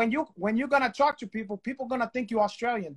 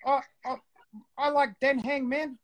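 mock Maori accent, pitched a little up; Maori guy impression; 3 semitones higher than usual. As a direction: imitate a Maori guy, hesitant and halting. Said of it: "every Maori guy I know talk like".

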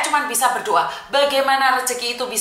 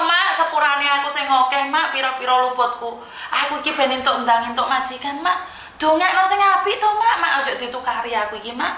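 begging mother; 4 semitones higher than usual. Pretend.

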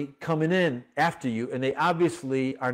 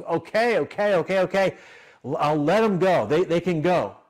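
Pharaoh giving in; 4 dB louder than usual. Acted. Pharaoh gives in.

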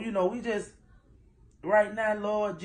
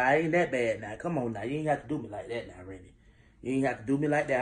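mock hurt; 5 semitones lower, faster than usual. Real, not acted.

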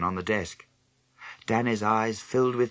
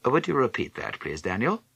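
a touch of exaggerated courtesy; very polite; 4 semitones higher than usual. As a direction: ask him oh so politely. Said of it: "Very politely".

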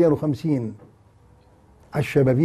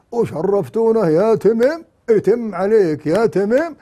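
higher, slow, hammed-up greeting to Tamim; mock Gulf welcome; 5 semitones higher, slower than usual. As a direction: lay on a sarcastic welcome. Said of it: "الآن عناق وأشواق".

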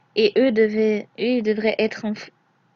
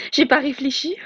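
mocking echo of "J'ai pas réfléchi", pitch lifted on "J'ai"; imitation moqueuse; 3 semitones higher than usual. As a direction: throw his own words back at him scornfully. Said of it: "tout ce que tu trouves à dire, c'est". (répète « J'ai pas réfléchi » avec mépris, en montant sur « J'ai »)

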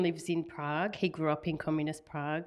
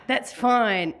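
forgiving cousin; 5 semitones higher, 8 dB louder than usual. Retold or imitated. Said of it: "then he's like".

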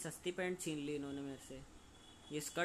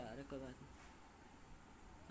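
slow soft reassurance; 13 dB quieter, much slower than usual. Acted. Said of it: "मैंने बोल दिया कि कोई बात नहीं".

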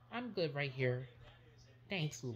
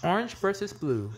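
loud announcement; 6 dB louder than usual. Acted. Announcing the game loudly.

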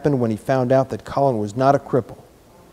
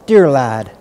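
tender; 7 dB louder than usual. A narrator's reading. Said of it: "as if she had not known she were going to say it".

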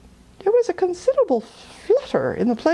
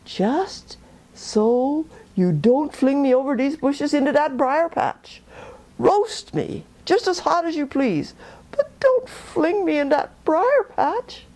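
higher, a put-on quaking plea from the trickster rabbit; mock trembling fear; 6 semitones higher than usual. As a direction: fake terror, pitched up and pleading. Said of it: "pretending to shake and quake all over".

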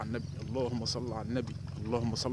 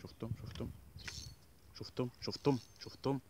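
excited see that; 9 dB quieter than usual. Real, not acted. Catch shown on camera, excited.

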